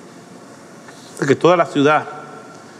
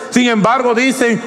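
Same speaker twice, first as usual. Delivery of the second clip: high, ringing pulpit voice, building; fervent preaching; 6 semitones higher than usual. Real, not acted. Preacher to his congregation, calling them to repentance, fervent and high. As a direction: preach it out to the whole church.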